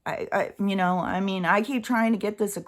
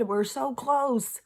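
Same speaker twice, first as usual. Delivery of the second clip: slow; 5 semitones higher, slower than usual. Real, not acted. Exasperated emphasis.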